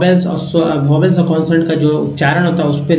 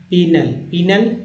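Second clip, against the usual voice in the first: पीनल drawn out slowly, twice; slow sounding out; much slower than usual. Shown as a demonstration. Teacher slowly sounding out पीनल for students. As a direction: stretch पीनल out slowly for the learner. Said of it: "sounding out the word".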